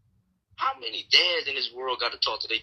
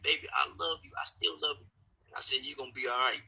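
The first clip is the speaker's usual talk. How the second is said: quieter tender reassurance; softly reassuring; 7 dB quieter, faster than usual. Retold or imitated. Husband retelling comforting his upset wife, quietly. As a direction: soothe her gently.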